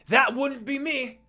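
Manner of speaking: high, slow, loud refusal; quick yelled dodge. A narrator's reading. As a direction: blurt it out fast and loud. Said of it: "Naruto yelled immediately".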